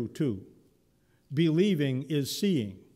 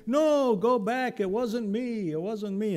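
put-on exasperated old man; 8 semitones higher than usual. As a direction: shoo the boy back to bed. Eli sending Samuel back.

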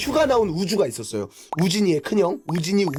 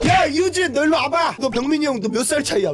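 aunts scolding; 5 semitones higher than usual. Retold or imitated. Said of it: "이모분들이".

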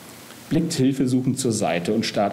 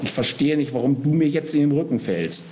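high-pitched exasperated appeal; remonstrate, pitch climbing; agitated; 9 semitones higher than usual. A narrator's reading. Death arguing with the disloyal Soul, agitated. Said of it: "ruft der Tod aufgebracht".

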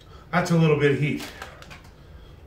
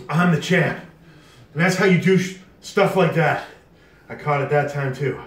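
triumphant. Real, not acted. Triumphant boasting after challenge.

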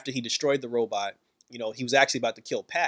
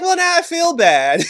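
much higher and louder, incredulous; excited exclaim; 8 dB louder than usual. Real, not acted. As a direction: squeal out the sudden guilt. Own reaction to sniveling Grundy.

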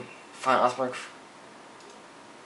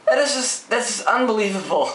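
real frustrated yelling; 9 semitones higher than usual. Real, not acted. Gamer forced to replay, furious high-pitched yelling. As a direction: rant at the screen at full volume. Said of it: "I sound like a fucking ten-year-old with this voice".

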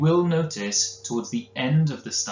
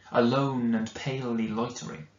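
poem reading. Acted. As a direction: let the line hang mournfully. Poem line in the recitation.

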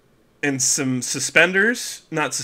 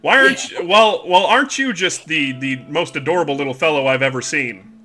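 cooing over a cute little fellow, a touch raised; fawning farmer. Acted. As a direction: gush over him like a doting farmer. Farmer fawns over Cashew.

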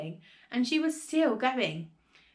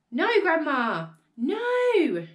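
loud, high protesting cry; calling back; 5 semitones higher, 6 dB louder, much slower than usual. A narrator's reading. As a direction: call up in alarm, stretching the last word. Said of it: "George called back".

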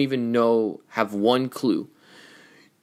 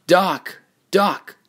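raised, higher-pitched call; 7 semitones higher, 5 dB louder than usual. Acted. Racer calling out for Doc, raised voice. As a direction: call sharply after someone.

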